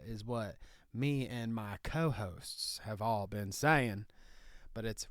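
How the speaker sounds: Southern hick lawyer bit, laid on thick; redneck Southern lawyer. Acted. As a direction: play a proud country lawyer in a thick Southern accent. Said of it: "What's with this accent, Nicky".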